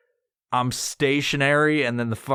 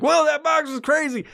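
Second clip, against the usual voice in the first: mock amazed; 11 semitones higher than usual. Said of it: "I'm like".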